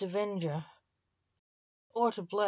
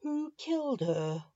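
higher-pitched, restrained roar; roared demand; 7 semitones higher than usual. A narrator's reading. Blake demands his wife's killer, a restrained narrated roar. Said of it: "roared Blake".

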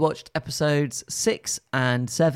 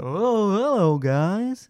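higher, mock English host greeting; very English accent; 5 semitones higher, 3 dB louder, much slower than usual. Imitating the puppet greeting viewers, very English accent. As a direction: put on a very English hello. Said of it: "it's just very English".

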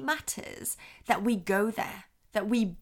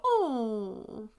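long, drawn-out tender "oh"; sympathetic coo. Shown as a demonstration. Adult answering a crying baby, sympathetic coo. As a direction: feel for the crying baby in one sound. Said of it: "When a baby's crying, we tend to go".

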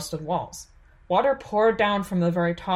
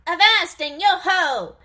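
slow, high hammed-up sailor cry; awkward mock pirate shout, drawn out and higher; failed pirate gusto; 11 semitones higher, 6 dB louder, slower than usual. A narrator's reading. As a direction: try too hard to sound like a pirate. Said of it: "doing her best to speak with gusto, but failing".

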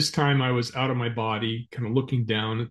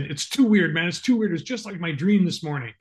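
spooked; 5 semitones higher than usual. Retold or imitated. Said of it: "he freaked out".

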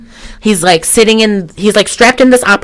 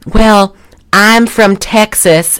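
slow mock Southern accent, like Julia Roberts in a rom-com; lightly drawn-out imitation of a Southern accent; 3 semitones higher, much slower than usual. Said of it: "Julia Roberts' Southern accent".

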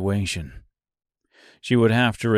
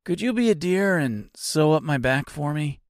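nonchalant; 5 semitones higher than usual. Acted. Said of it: "he asked nonchalantly".

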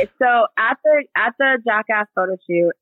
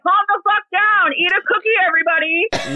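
hammed-up singsong order to the whole house; mock smart-ass; 10 semitones higher than usual. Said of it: "me being a smart ass".

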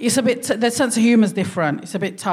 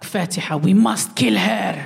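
mum voice. Retold or imitated. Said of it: "she's like".

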